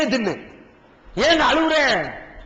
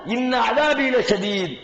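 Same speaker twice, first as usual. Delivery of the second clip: slow, measured recitation of the Arabic verse; slow reverent Arabic recitation; Quranic recitation; much slower than usual. Acted. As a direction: intone the verse slowly like scripture.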